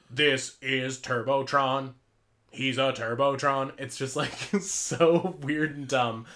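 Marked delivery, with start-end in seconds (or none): 0.1-3.7 toy commercial. Retold or imitated. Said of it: "the song for it's like".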